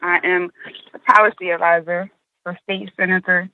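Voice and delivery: breathless from walking to the car; winded, catching breath between phrases. Real, not acted. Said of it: "Excuse me being out of breath".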